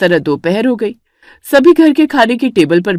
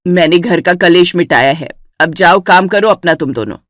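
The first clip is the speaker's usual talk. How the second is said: put-on lower, stern old mother-in-law; a lower, annoyed elder's voice; 3 semitones lower than usual. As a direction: scold the bickering daughters-in-law. Mother-in-law orders them off.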